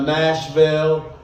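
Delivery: slow Tennessee accent; a slow Southern Nashville. Shown as a demonstration. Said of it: "a little more volume in Tennessee".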